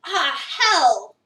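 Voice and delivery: loud laughing curse; alarmed outburst. Acted. Player realizing he'll be late for work, loud laughing curse. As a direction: blurt it in sudden panic.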